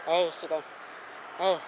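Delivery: low muttered swear; cursing under breath. Real, not acted. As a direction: grumble the curse to yourself. Cursing at failed cast.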